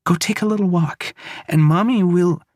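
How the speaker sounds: high, strained pleading; frightened urging. Acted. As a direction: urge him away, terrified. Mother urging, scared.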